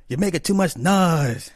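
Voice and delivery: lightly voiced cartoon bear; grumpy cartoon bear. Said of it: "that old cartoon with the bear".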